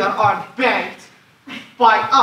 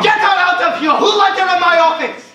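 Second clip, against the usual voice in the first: angry command; 5 semitones higher than usual. Acted. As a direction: bark at the clerk. Banker orders her removed.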